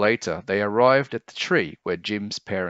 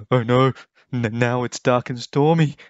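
mildly frightened; 4 semitones higher, 6 dB louder than usual. A narrator's reading. Tim frightened.

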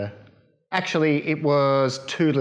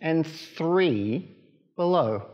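Mother Duck; 3 semitones higher than usual. Acted. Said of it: "quacked Mother Duck".

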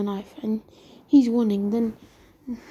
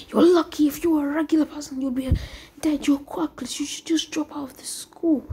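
higher-pitched taunt; 4 semitones higher than usual. Acted. Schoolmate taunts quirkless Deku.

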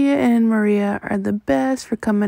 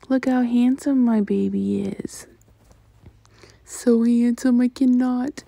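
whispered, hushed with adoration; tender whisper; 3 semitones higher than usual. Real, not acted. Mother admiring newborn photo.

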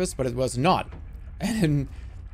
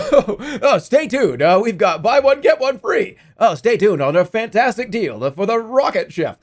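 mock ad announcer; 4 dB louder than usual. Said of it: "Don't touch that remote".

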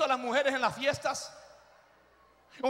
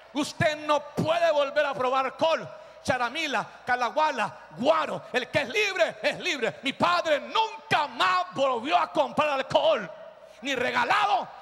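emphatic, punched sermon delivery; forceful preaching. Real, not acted. Preacher to freed drinkers, forceful preaching. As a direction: drive each phrase home to the congregation.

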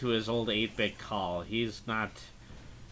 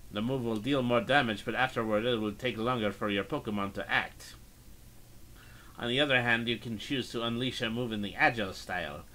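put-on Russian accent. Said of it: "Please forgive my Russian accent".

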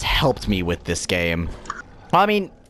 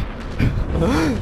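nervous relieved laugh; 8 semitones higher than usual. Real, not acted. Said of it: "That actually jump scared me".

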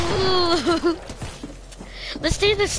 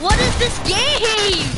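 slow, higher exasperated complaint; 5 semitones higher, slower than usual. Real, not acted. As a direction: drag it out, fed up. Frustrated by lag.

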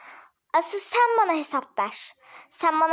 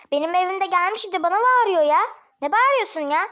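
an indignant scold, a little louder; 4 dB louder than usual. Acted. Landlady tells off the tenant for shouting in her home, indignant. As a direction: tell him off for yelling in your house.

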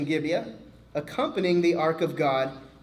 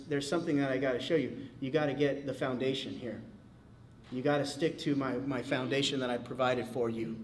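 put-on softer, calm voice of God correcting a child; a hint of a gentle heavenly father, softer; lightly voiced God; 3 semitones lower, 5 dB quieter than usual. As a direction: speak as God, quiet and patient. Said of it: "And eventually he says".

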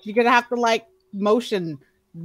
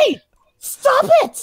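high shout, slow and urgent; 5 dB louder than usual. Acted. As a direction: yell it to snap him out.

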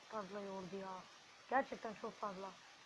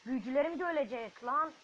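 loud, alarmed cry; real panic over dying wizards; panicked shout; 3 semitones higher, 9 dB louder than usual. Real, not acted. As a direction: yell out in alarm.

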